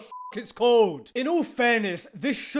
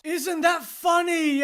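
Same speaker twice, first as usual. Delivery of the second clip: higher, slow sarcastic jab; 5 semitones higher than usual. Real, not acted. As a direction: ask it with mock amusement. Sarcastic question.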